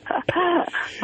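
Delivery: breathy whispered laugh; giggling through the words. Real, not acted. Laughing about her braces.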